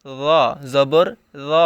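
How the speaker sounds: র said soft and light; don't harden the র. Shown as a demonstration. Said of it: "নরম হবে এখানে।".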